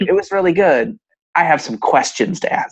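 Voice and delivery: a hint of a mother with questions; mom voice. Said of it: "That's my imitation of my mom voice".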